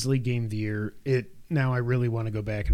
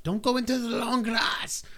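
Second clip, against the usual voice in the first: mock warning; 9 semitones higher than usual. Game's warning quoted.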